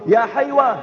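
high-pitched retold call; mild imitation of a mother's yell; mock shouting. Mother calling her son from the mosque window, mild mock yell. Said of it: "ثم تصرخ به تقول".

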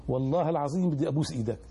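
put-on Syrian accent. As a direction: quote him in a Syrian accent. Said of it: "قال لي باللهجة السورية". (لهجة سورية)

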